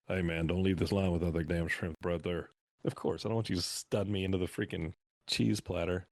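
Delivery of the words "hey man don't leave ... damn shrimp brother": a light, somewhat lower imitation of a wrestler's growl; a half-hearted wrestler swagger, not fully committed; Stone Cold again. Recalling Stone Cold insisting on the shrimp, in a mild imitation. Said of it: "coming up and be like".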